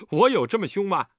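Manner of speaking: high, loud, tickled question; jovial mock protest; amused. A narrator's reading. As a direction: ask it fresh from a laugh. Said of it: "笑着道".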